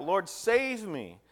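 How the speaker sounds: loud, slow cry for rescue; drawn-out plea of a sinking man, high and loud; desperate cry. A narrator's reading. Peter sinking, crying out to Jesus for rescue: loud slow desperate plea. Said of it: "he cried out".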